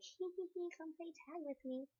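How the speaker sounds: put-on high, giggly ghost-child voice; giggly sinister sing-song. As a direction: tease like a creepy ghost child.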